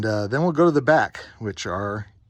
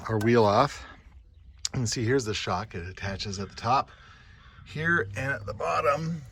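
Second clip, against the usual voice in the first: strained, grunting while wrenching; effort grunt; 3 dB quieter than usual. Real, not acted. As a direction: talk through the strain of lifting. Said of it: "sorry, so much grunting".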